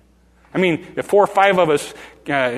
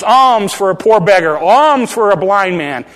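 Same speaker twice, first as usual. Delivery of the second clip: louder beggar's plea for alms; beggar's call; 3 semitones higher, 6 dB louder than usual. Pretend. Blind beggar calling to the crowd, pleading and loud. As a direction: call out to passers-by for a coin.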